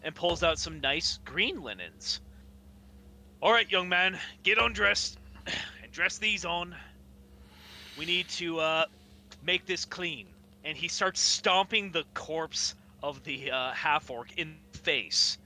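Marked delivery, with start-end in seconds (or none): 3.4-10.3 hafif taklit edilmiş iri adam, emir veriyor; Goliath giving orders. Acted. Goliath orders the player to change.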